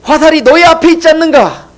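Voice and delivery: tearful call. Acted. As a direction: call to the boy across the field, weeping. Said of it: "눈물을 흘리면서 소리를 지릅니다".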